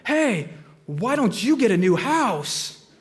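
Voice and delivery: slow, stretched mock scream, Farley style; Chris Farley scream. Bill yelling back at hecklers mid-run, hammed-up Farley scream. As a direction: bellow it back over your shoulder like Chris Farley. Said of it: "scream like Chris Farley as loud as he could".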